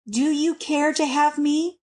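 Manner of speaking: sobbing. A narrator's reading. Wife asks if her husband wants her, understated sobbing. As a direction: ask with only a hint of a sob. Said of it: "with a sob".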